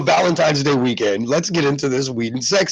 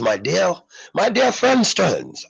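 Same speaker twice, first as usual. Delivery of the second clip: slow, higher mock British accent, drawn out; hammed-up British accent, stretching friend; terrible British accent; 6 semitones higher, slower than usual. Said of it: "I do a terrible British accent".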